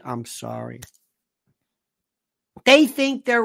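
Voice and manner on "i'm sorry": much lower and softer, mimicking a voice tremor; mock spasmodic voice. Host mocking the Kennedys' voice, imitating a strained tremor. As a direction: croak it like Kerry Kennedy's strained voice. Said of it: "she's got that voice like that".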